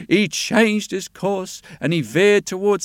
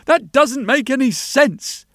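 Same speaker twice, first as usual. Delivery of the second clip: higher-pitched sailor thinking aloud; lifted pitch, full of bewilderment; puzzled sailor; 7 semitones higher, 4 dB louder than usual. Acted. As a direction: wonder aloud in a high, baffled sailor's voice.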